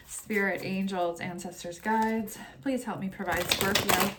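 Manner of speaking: steady, earnest invocation to the guides; prayer. Acted. Reader praying to spirit guides before the tarot reading, calm prayer. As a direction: pray it calmly, fading toward the amens.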